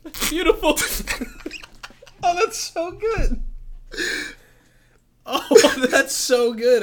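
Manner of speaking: high, loud laughing praise. Real, not acted. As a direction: crack up while praising it. Laughing at the impression.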